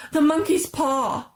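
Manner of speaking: slow, high and loud; wild cry. A narrator's reading. Wife waking her husband, slow wild cry. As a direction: cry it out in frenzy. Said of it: "she cried wildly".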